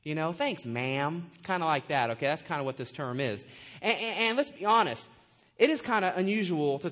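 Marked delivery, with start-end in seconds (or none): 0.3-1.3 lower, understated courteous thanks; a formal, respectful thank-you; polite. Shown as a demonstration. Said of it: "kinda like the term ma'am".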